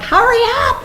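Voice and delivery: high, loud impatient yell; urgent shout. Retold or imitated. Actress left in flooding water during a repair, shouting high. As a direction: shout it as if water is rising round you.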